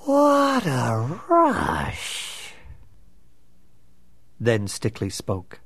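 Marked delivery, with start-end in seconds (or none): 0.0-2.5 muttered. Acted. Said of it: "Nigma muttered".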